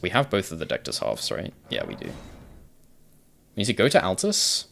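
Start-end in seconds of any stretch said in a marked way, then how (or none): 2.1-4.7 slow, higher, stretched-out singsong; drawn-out sing-song. Shown as a demonstration. Streamer repeats the plan to himself in a slow, higher singsong. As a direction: stretch every word out lazily, a little higher.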